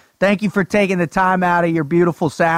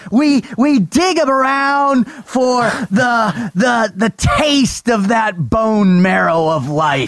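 hyped shouting; 4 semitones higher than usual. Acted. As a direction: pump up the crowd. Hype host intro, shouted.

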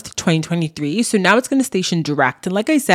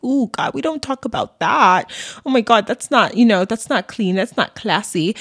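mock scandalized; 5 semitones higher than usual. Mocking prudish society's reaction.

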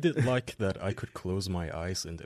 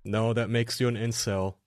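sarcastic; 3 semitones higher, 3 dB louder than usual. Acted. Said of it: "He's being sarcastic".

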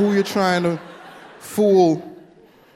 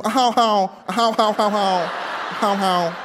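southern laugh; 5 semitones higher, much slower than usual. Retold or imitated. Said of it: "her laugh had the stupid accent too".

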